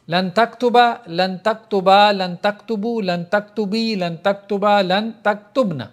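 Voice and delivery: measured classroom recitation with drawn-out endings; conjugation drill recitation. Shown as a demonstration. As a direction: recite the verb forms one by one in a steady drill rhythm. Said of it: "گردان کریں گے".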